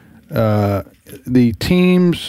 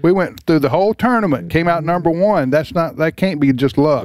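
higher-pitched mock objection; protesting fans; 4 semitones higher than usual. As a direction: speak up for indignant fans. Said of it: "I hear the people from Oklahoma saying".

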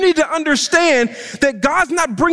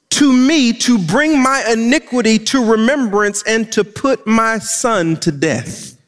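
slow scripture reading; 4 semitones lower than usual. Shown as a demonstration. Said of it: "let me show you how the widow responds".

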